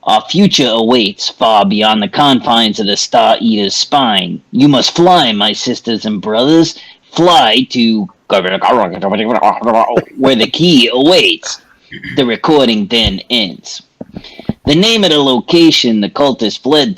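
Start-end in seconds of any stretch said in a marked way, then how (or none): 0.0-11.6 lightly voiced triumphant cult leader, slow at the end; a hint of gleeful prophecy; jubilant cult leader. GM voicing the cult leader's recording, mildly jubilant. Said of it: "Tahoman jubilantly states".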